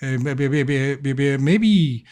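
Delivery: put-on high, eager rambling kid; a stammering little boy, pitched high; shy son stammering to the returned guest, high-pitched; excited child. GM holds child Pip voice.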